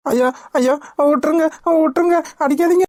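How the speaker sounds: pained begging; desperate pleading. Acted. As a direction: pitch climbing as he begs. Beaten man begs for mercy.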